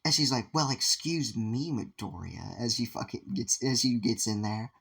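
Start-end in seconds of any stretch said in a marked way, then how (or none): 0.5-2.6 drip with offended sarcasm; sarcastic Momo. Retold or imitated. Offended Momo cuts in on the boys with slow sarcasm.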